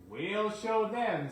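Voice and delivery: slow, high, loud resolve; rally your friend; determined engine. Acted. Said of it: "said Douglas".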